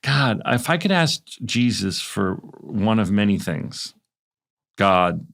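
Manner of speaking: slow, grand mock appeal to God; mock prayer. Host pleading with God to make him watch shows, mock solemn. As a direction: pretend to pray as a gag. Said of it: "I'm doing a bit".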